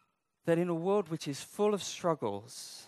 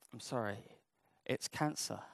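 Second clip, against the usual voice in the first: grave doctor's news; 7 semitones lower, 11 dB quieter than usual. Retold or imitated. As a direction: lower and much softer, solemn bad news. Doctor gives bad news.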